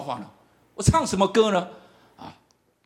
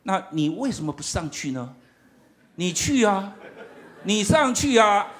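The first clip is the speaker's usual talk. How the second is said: inner voice; slower than usual. Retold or imitated. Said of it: "心中有一种声音跑出来".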